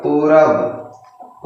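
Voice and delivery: पूरब stretched out syllable by syllable; teacher spelling out पूरब slowly; very slow reading. Shown as a demonstration. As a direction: draw out पूरब very slowly for the class. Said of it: "क्या होगा?".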